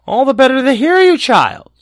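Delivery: high, loud false granny voice; wolf faking a sweet grandma. A narrator's reading.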